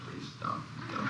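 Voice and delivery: imitating a quiet, pained plea; pleading murmur. Co-star begs him not to bring it up, pleading quietly. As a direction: beg under your breath, barely voiced. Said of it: "and she said".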